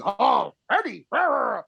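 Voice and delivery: lightly voiced goofy Venom; silly Venom voice. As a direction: drag out Eddie, mocking the movie Venom. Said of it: "that fucking voice just got worse".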